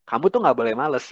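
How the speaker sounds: Kamu tuh nggak boleh males said evenly as counsel; counsel, don't accuse; steady advising tone; gentle advice. Shown as a demonstration. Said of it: "Beda dong".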